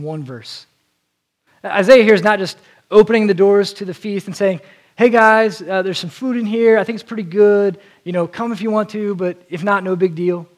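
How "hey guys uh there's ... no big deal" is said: casual shrug. Pretend. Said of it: "he's doing the exact opposite".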